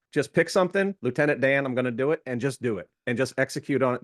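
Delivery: light Jimmy Burgess accent, playful impression; a hint of mock Forrest Gump accent. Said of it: "That was my Jimmy Burgess accent".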